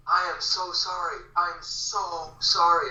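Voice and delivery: slow, drawn-out sorry; a hint of an over-apologetic stranger; apologetic guy. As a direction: lightly play a man who feels terrible. Guy apologizing after door hit.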